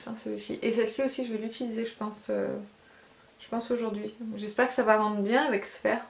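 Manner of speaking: ordinary talk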